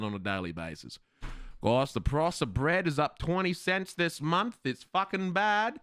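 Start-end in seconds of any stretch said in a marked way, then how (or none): 1.6-5.8 lightly put-on talk radio host; hint of a mock-serious podcaster, slightly higher. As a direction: play at hosting a daily radio rant. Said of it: "Start a podcast? What would I talk about".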